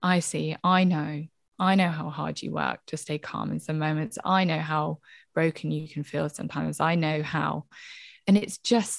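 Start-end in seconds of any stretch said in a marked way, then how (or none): 0.0-7.7 tender reassurance. Retold or imitated. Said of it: "you as an adult speaking to that little child".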